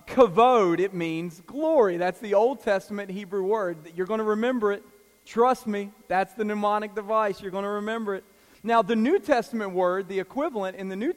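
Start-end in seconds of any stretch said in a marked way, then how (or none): 0.1-8.2 louder, hammering kavod home; emphatic. Real, not acted. Preacher insisting the congregation will remember kavod, loud and emphatic. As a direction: drive the word home to them. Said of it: "the only thing you remember".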